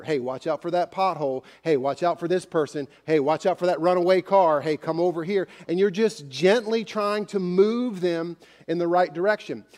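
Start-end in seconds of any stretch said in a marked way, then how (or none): 0.0-5.5 gentle parent. Retold or imitated. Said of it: "gently tapping their shoulder".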